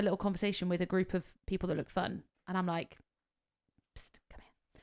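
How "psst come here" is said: hushed, secretive "psst"; very soft, unvoiced-breath summons; conspiratorial whisper. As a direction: whisper to beckon someone over. Secretly beckoning guests over.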